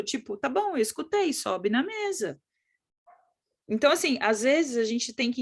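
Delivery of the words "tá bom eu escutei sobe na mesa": lightly voiced child repeating the order back; child obeying what it heard. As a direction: answer as a compliant child, slowing on "sobe na mesa". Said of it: "A criança sobe e fica te olhando".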